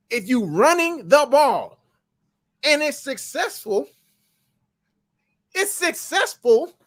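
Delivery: high, slow, exasperated lecture; lecturing Harbaugh. Retold or imitated. Fan telling coach Harbaugh to keep running, high and slow. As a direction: scold the coach like he should know better. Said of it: "tell him, like".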